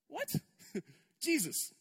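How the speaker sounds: a laugh, then "Jesus" in mock exasperation; incredulous laugh at Jesus; laughing disbelief. Real, not acted.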